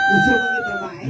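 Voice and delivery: the host pretends to be shocked that the boy wants to be a girl; mock surprise. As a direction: pitch leaps way up in fake disbelief. Host teases boy, asks twice.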